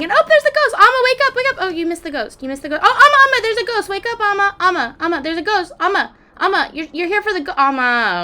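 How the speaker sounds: frantic calling. Real, not acted. Streamer frantically calls her sleeping Sim to see the ghost. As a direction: yell to wake her before the ghost leaves.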